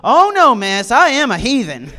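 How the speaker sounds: loud, high, laughing "oh, no"; cheerful admission. Retold or imitated. Friend Sean cheerfully telling the mom he is a heathen. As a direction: own it gleefully.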